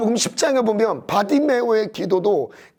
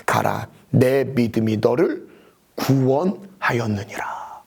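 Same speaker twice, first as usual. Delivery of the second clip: gentle blessing; 8 semitones lower, slower than usual. Acted. Jesus's words, softly.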